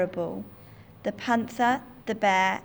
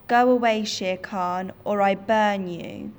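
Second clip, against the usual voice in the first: much louder, ordering the tiger off; threatening shout; 5 dB louder than usual. Acted. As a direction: threaten him with the fire. Mowgli threatens tiger with fire.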